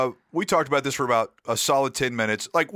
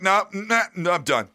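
exasperated; 8 semitones higher than usual. Retold or imitated. Quitting after bad reaction.

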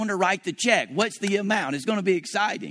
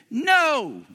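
flat refusal; 7 semitones higher than usual. Retold or imitated. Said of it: "And I said".

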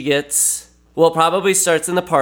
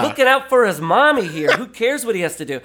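higher-pitched mock defence of him; won-over viewer; 6 semitones higher, faster than usual. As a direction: stick up for him in a playful high voice. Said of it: "you're just like".

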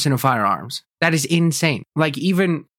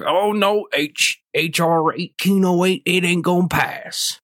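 higher, dismissive mock voice; mocking pro-gun guy; 5 semitones higher than usual. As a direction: parody a smug gun owner brushing it off. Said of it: "every pro-gun guy ... is like".

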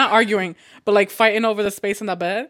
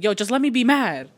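mildly raised mock-mad plea; playfully indignant; retold mad protest; 4 semitones higher, 4 dB louder than usual. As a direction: act out being mad, a little higher and louder. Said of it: "used to get really mad about".

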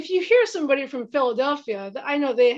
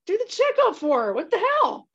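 urging, excited; 5 semitones higher than usual. Retold or imitated. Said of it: "And I'm like".

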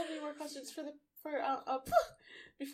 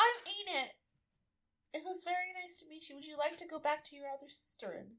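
a hint of higher gentle elf voice; gently sweet, slightly higher speech; lightly voiced elf; 5 semitones higher than usual. Elf speaks to pixie.

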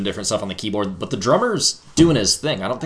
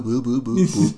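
bass imitation. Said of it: "that random little bass thing, too, the boo".

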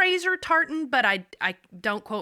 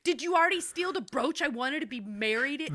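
put-on accusing old woman; 5 semitones higher than usual. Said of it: "be a bitch about".

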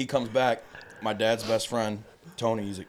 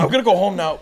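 higher, louder mock of a sheepish exit; hammed-up crackhead line; 8 semitones higher, 11 dB louder, faster than usual. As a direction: ham up the crackhead's goodbye. Repeating Marky laughing.

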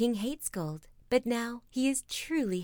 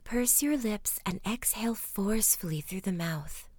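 whispered breathing guidance. Acted. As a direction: whisper them into slow breathing. Leads bedtime breathing exercise.

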